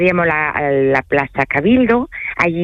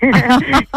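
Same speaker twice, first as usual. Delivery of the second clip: laugh; 8 semitones higher, 3 dB louder than usual. Real, not acted. Laughs after speaking French.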